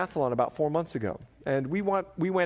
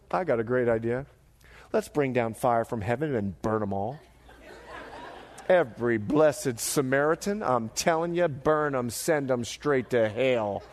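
put-on lightly done country accent, lower; 5 semitones lower than usual. John pitching fire from heaven to Jesus in a light country accent. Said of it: "Sorry for the country accent".

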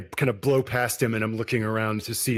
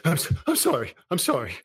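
rising, higher desperate sorries; panicked apology; 5 semitones higher than usual. Acted. Vampire apologising to Craig after grabbing him, panicked. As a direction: babble it out in panic. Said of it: "vampire apologising after attack".

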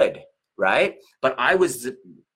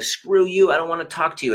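put-on teen snapping back; 5 semitones higher than usual. Teenage son rejecting his mother.

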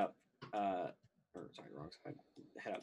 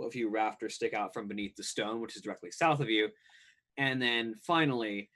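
even, read-out game master description; scene-setting narration. A narrator's reading. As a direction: lay out the scene for the players.

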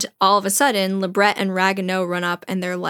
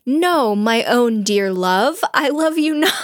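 slow, rising melodramatic declaration; hammed-up lover's protest, drawn out; impassioned denial; 4 semitones higher, 4 dB louder than usual. Acting Cyrano's impassioned denial.

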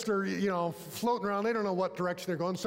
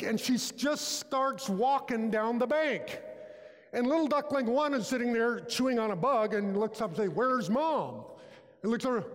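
animated storytelling; 5 semitones higher than usual. Acted. Animated mother duck story.

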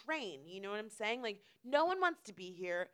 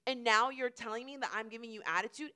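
loud, emphatic mock tirade; imagined indignant rant; 8 dB louder than usual. What she wished she told the pole hogger, indignant. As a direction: build a loud, self-righteous telling-off. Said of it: "I didn't say any of it like that".

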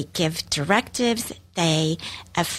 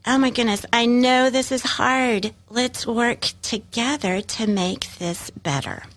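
put-on soothing a melting-down child; 3 semitones higher than usual. Shown as a demonstration. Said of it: "you could say".

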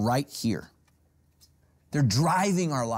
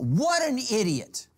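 scornful thought; 9 semitones higher, slower than usual. Retold or imitated. Acts out his scornful thought.

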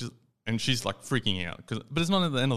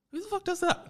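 very high squeaky disbelief; incredulous outburst. Retold or imitated. Telling a mate about the locksmith, squeaky outraged disbelief.

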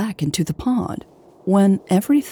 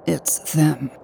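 angry whisper; 3 dB quieter than usual. Acted. Hobbs warning Louise about the rebels, angry whisper. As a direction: hiss the warning under your breath. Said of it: "he whispered angrily".

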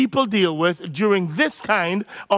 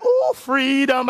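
higher, drawn-out mock elation; acted excitement; 6 semitones higher, slower than usual. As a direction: savour sudden freedom, playfully overdone. Acts parents' early lockdown excitement.

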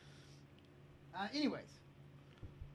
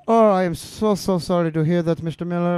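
a touch louder, syrupy customer-service sorry; gushing fake apology; 6 dB louder than usual. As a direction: overdo the apology like a scripted rep. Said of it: "Or the guy that goes".

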